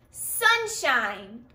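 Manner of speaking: slow sunshine, split into sun and shine; syllables clapped out. Shown as a demonstration. Teacher to class, clapping out the syllables. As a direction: clap out Sunshine beat by beat. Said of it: "Sunshine has two syllables".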